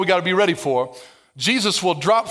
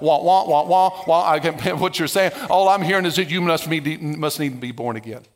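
lower, dismissive wah-wah; mock tuning out; 4 semitones lower than usual. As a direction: brush off the chatter, half-listening. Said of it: "Jesus was like".

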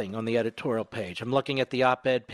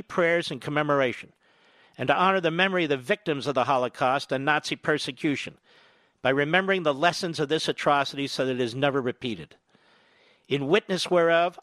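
formal proclamation read, measured and solemn; notary reading; 2 semitones higher than usual. Acted. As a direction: read it like an official document. Reads a presidential proclamation aloud.

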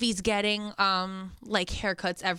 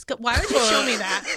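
disgusted laughter; 5 dB louder than usual. Real, not acted. Reading a gross comment aloud.

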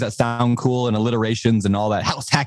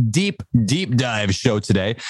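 deep announcer voice; slower than usual. Pretend. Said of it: "I don't have a very low voice".

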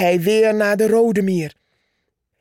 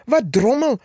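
mock shout; 6 semitones higher than usual. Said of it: "schreeuwde Purperhart".

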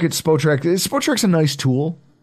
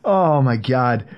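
after laughing hard; 3 semitones lower, much slower than usual. Real, not acted. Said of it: "let me compose myself here".

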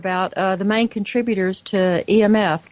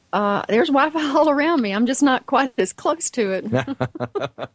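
amused laugh through the words; 4 semitones higher than usual. Real, not acted. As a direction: laugh at the irony. Laughs at own irony.

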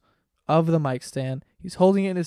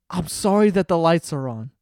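imitated loud drunk apology, building; mock drunk outburst, loudest on the last words; retold drunk shouting; 5 dB louder than usual. Drunk friend apologizing in a dark house, too loud. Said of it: "He's screaming".

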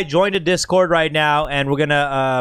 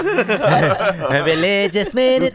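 high, slow, laughing host intro; laughing announcement; 6 semitones higher, 5 dB louder, much slower than usual. Real, not acted. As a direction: announce the segment while laughing.

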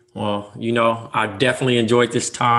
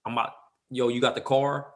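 L.A. enunciation; 7 dB quieter than usual. Shown as a demonstration. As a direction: quietly show off the L.A. enunciation. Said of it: "the enunciation of it".

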